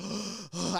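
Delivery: mock gasp. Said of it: "I'm like".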